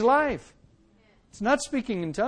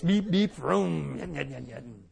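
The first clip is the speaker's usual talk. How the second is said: playful car beeps and engine sounds, fading; car noises trailing off softer; 4 semitones lower, 5 dB quieter, slower than usual. Shown as a demonstration. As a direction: imitate a car, dropping away. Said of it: "all the noises a car makes".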